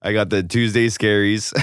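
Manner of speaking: hungover. Real, not acted. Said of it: "I'm so hungover".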